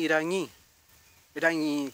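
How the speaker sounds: IRAÑÍ with a light tapped r; Rapa Nui-style r. Shown as a demonstration. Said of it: "como los Rapa Nui, no".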